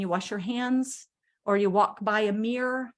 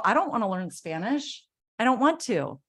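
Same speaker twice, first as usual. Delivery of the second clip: whiny refusal. Pretend. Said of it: "I can sit around and go".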